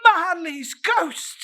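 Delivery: high, loud cry of recognition. A narrator's reading. The dying flame cries out to Scrooge, loud and high. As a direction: call out the name in alarm. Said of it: "as though it cried".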